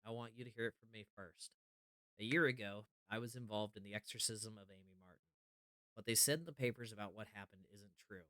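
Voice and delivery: earnest, hushed letter reading. Acted. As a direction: read the note like a confession. Reads a note from John aloud.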